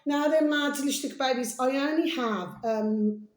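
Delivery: hoarse voice. Real, not acted. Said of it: "Please excuse my, uh, voice".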